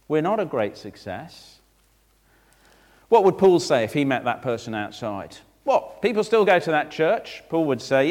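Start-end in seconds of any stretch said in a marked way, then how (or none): 5.6-7.4 high-pitched mock disbelief; acted astonished question; incredulous outsider. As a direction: query it in surprise. Imagined doubter questions Paul.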